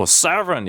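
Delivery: "seven" with a full "von" ending; wrong second vowel. Shown as a demonstration. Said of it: "seven도 아니고".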